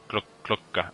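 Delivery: Clucker said the Dutch way, like Klokker; Dutch accent. Shown as a demonstration. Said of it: "I can't help but say it in, like, a slightly Dutch accent".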